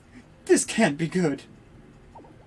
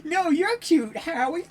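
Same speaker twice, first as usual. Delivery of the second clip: higher, sweet cooing lovers; lovey-dovey couple; 11 semitones higher than usual. Acted. Two Howies flirting with each other, lightly voiced sweet coo.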